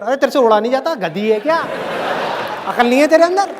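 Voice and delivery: imitated angry rant; mock angry scolding. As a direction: scold the fish in mock exasperation. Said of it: "गुस्सा कर रहे हो".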